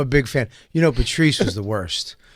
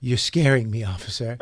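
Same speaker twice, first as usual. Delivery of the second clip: mock scared. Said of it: "He goes".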